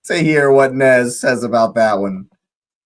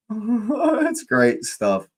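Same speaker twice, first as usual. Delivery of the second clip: high, slow, giggly repeat; laughing; 10 semitones higher, 4 dB quieter, much slower than usual. Real, not acted. Streamer enjoying the group chat, laughing repeat. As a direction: laugh through the words.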